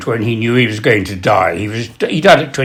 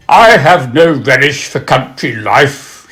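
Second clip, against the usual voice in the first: quoted witticism; 4 dB louder than usual. Acted. Acts Sidney Smith's quoted witticism.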